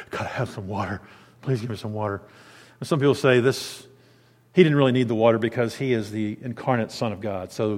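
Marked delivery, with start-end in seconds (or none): 0.1-2.2 polite request. Retold or imitated. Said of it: "he didn't say".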